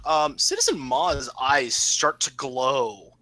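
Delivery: slow, drawn-out scene setting; game master narration. Acted. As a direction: unveil the eerie moment slowly.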